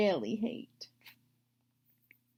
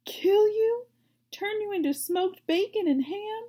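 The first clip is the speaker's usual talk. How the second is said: put-on old sheep gloating; 10 semitones higher, 4 dB louder than usual. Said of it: "continued the old sheep".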